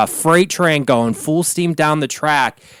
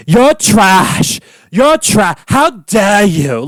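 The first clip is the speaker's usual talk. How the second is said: high, loud mock shriek of outrage; mock screaming; 5 semitones higher, 3 dB louder, much slower than usual. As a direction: shriek it like an offended socialite. Ramona screaming at the man.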